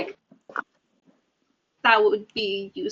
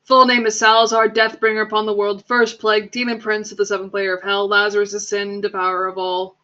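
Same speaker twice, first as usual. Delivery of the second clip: grandiose villain; 5 dB louder than usual. Acted. Grand self-proclaimed title recital.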